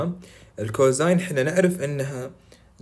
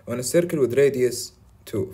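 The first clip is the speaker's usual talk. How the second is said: slow reading; 2 semitones higher, 4 dB louder, much slower than usual. Shown as a demonstration. Reading the question aloud slowly.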